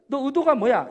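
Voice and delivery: loud challenge of a friend's motives; acted perfectionist demanding an explanation; interrogating suspiciously. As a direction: press them with pointed questions. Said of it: "이런 식으로 따져 묻는".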